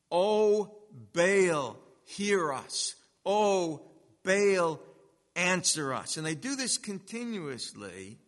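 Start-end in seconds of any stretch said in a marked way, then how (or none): 0.1-6.2 loud, pleading cry to Baal; prophets calling out. Retold or imitated. Baal's prophets crying to their god, loud pleading. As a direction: call out to a god who never answers.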